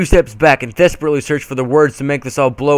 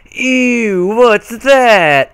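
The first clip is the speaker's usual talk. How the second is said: high, grossed-out squeal; disgusted shriek; 8 semitones higher, 5 dB louder, much slower than usual. A narrator's reading. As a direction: recoil from something gross.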